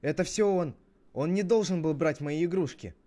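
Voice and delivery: put-on high, loud complaint of a squabbling child; indignant kid tattling; quarrelling child. Children quarrelling over toys.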